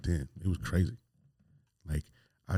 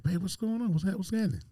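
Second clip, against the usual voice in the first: much higher, playing dumb; feigned innocence, voice pitched way up; innocent confusion; 12 semitones higher than usual. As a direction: act like you have no idea. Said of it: "I'm like".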